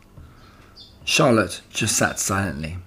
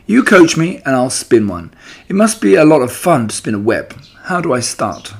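put-on eager young pig; 4 semitones higher, 4 dB louder than usual. Wilbur voiced eagerly in story.

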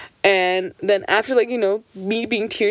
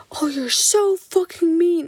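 bratty back talk; 10 semitones higher than usual. Retold or imitated. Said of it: "Like, raise her voice".

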